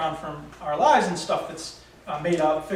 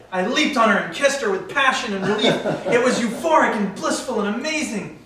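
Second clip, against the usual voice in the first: lifted, gushing narration; story narration; 4 semitones higher, 4 dB louder than usual. A narrator's reading. Narrator imagining a kiss with her, gushing narration. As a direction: build the fantasy in earnest.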